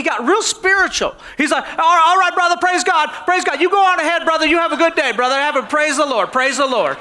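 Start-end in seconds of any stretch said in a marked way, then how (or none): 1.6-7.0 a hint of a sheepish churchgoer fawning over the pastor; mock pious driver. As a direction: play the suddenly holy road-rager, eager to please. Startled driver suddenly turns pious.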